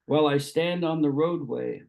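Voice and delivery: measured poetry recital with pauses between phrases; lightly lilting recitation, lines falling at the close; poem reading. Acted. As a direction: read it as verse, phrase by phrase. Rereads the last stanza.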